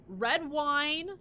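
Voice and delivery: put-on Valley Girl voice. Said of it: "you want a Valley Girl voice still?".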